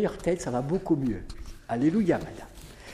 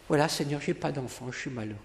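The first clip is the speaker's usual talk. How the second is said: mock plea; 6 semitones lower, 8 dB quieter than usual. Voicing the woman's prayer.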